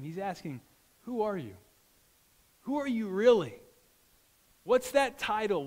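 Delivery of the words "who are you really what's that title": 「Who are you really?」を高く大きく、力強く問い詰める; 声を張り上げて「Who are you really?」と迫る; forceful question. Shown as a demonstration. Preacher repeats God's question.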